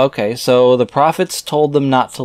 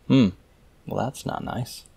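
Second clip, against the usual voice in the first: ordinary talk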